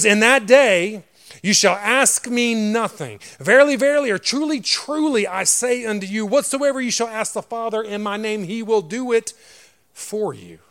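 high, loud scripture proclamation; emphatic declamation. Acted. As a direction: declaim the verse with ringing force.

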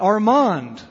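loud desperate call of a name; yelling. Acted. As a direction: shout the name into the rubble. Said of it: "he yelled out".

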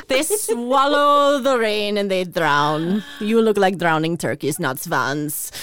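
insulting ballet master. Retold or imitated. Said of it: "the insulting ballet master".

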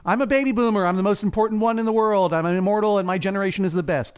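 hint of a hammed-up arrogant senator; mock Piso. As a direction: play a smug old man sure he is immortal. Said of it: "Piso thinks it over and goes".

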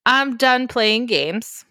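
slow mock-menacing line, clean version; a milder hammed-up villain; angry king. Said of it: "It's not really what he says".

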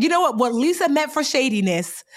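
high, declaiming, laughter creeping in; mock-triumphant retort. Turning little sister's shade into victory, high mock-triumphant declaring.

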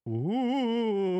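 high wavering ghostly ooh. Acted. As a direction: moan it like a spooky ghost. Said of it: "Parentheses, ghost voice".

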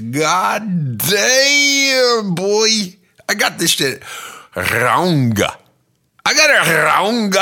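high loud panicked shout; anguished yell. Acted. Himself in hell yelling regret.

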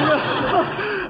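mock aristocratic chortle. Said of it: "No one sounds like that".

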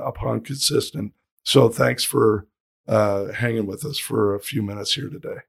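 hoarse, worn-out voice; talking with almost no voice left; lost voice. Real, not acted. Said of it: "I have no voice".

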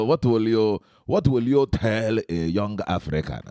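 same question redone in an Igbo accent. Shown as a demonstration. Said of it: "without even the accent".

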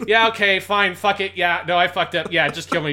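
exasperated, repetitive giving up; resigned losing gamer. Retold or imitated. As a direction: imitate a gamer angrily conceding defeat. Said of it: "you realize you've lost".

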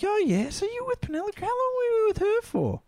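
high, chummy Aussie banter; matey chat. Retold or imitated. Retelling a dream chat with Tom Cruise, matey and casual. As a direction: talk to a star like your best mate. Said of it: "I'm talking like he's my best mate".

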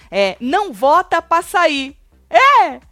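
loud, high, incredulous disbelief; exasperated outburst. Real, not acted. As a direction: throw up your hands in disbelief. Mocking the host's rule change.

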